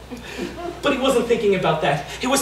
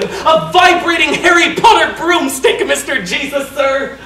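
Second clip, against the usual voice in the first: put-on eager child; 5 semitones higher, 5 dB louder than usual. Eager boy blurts his wish.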